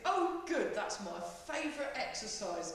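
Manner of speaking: a hint of sarcastic cheer; lightly ironic student thoughts; mock enthusiasm. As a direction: pretend to love the exercise. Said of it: "You think".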